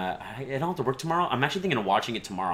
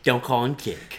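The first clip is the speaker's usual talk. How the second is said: Shatner impression. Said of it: "William Shatner once said".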